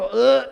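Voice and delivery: mock gag. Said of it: "they don't just go".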